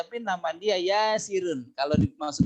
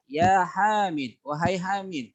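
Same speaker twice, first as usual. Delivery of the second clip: calling out; 2 semitones higher, slower than usual. Shown as a demonstration. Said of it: "huruf untuk memanggil".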